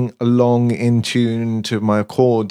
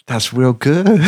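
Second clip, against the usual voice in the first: deliberately bad New York accent, lazy and drawn out; a hammed-up, clumsy New York drawl, slowing right down on the repeat; 3 semitones higher, slower than usual. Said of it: "I'm gonna do a really bad New York accent".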